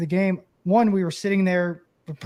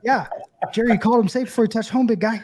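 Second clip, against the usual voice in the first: fast, higher mocking jab; taunting umpire; 4 semitones higher, faster than usual. Catcher retelling a jab at the umpire, fast mocking. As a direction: rattle it off fast to needle him.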